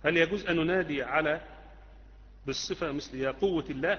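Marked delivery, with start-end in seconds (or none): none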